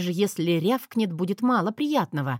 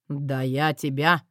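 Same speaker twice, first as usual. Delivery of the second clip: threatening husband; 4 semitones lower, slower than usual. A narrator's reading. Husband starts to threaten her.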